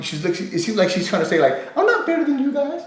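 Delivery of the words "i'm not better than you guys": mock superiority. Mocking her attitude.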